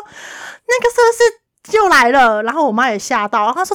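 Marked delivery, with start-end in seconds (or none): 0.1-2.4 high, slow, louder scared question; retold fright at the bug, high and drawn out; frightened question. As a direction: ask in a fearful rising voice.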